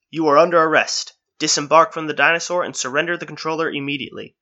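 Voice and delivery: a hint of a loud security drone. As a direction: command it like a police machine. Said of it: "A voice emanated from all of them".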